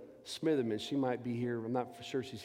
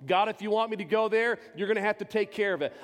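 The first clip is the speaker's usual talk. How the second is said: loud pleading prayer; 5 semitones higher, 4 dB louder than usual. Retold or imitated. Retold prayer to God.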